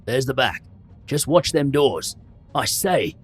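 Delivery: burly barman sounding the alarm. A narrator's reading. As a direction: call out urgently. Barman alarmed about open doors.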